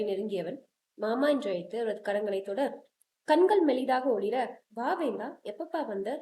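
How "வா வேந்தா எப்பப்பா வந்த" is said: put-on a sick old man's tired, soft greeting; tired weak voice. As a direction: speak weakly, worn out from the hospital bed. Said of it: "என சோர்வான குரலில் கேட்டார்".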